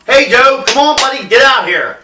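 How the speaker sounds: mild retold holler through a door; acting out calling a buddy outside. Teller calling Joe out to talk at his door, calling out.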